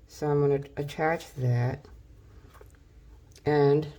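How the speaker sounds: talking around a pen in mouth; words muffled by a pen held in mouth; pen in teeth. Real, not acted. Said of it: "can't talk with a pen in my mouth".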